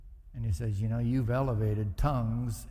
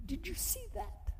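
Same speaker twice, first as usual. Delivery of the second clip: much higher, softer indignant squeal; mock outrage; 8 dB quieter than usual. Driver griping about another car, high indignant squeal. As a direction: squeak it out in disbelief.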